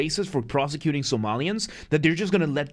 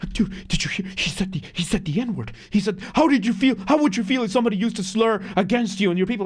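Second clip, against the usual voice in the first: put-on panicked, freaking-out outburst, higher pitch; 6 semitones higher than usual. Retelling a coworker freaking out: imitating someone freaking out. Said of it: "he starts freaking out".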